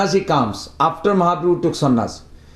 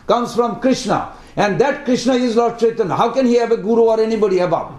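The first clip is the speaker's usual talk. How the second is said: put-on excited child; 3 semitones higher than usual. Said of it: "grab father".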